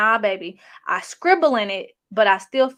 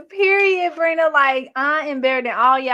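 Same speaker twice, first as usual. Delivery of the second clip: sassy comeback; 5 semitones higher, 5 dB louder than usual. Real, not acted. Comeback to commenter Brenda.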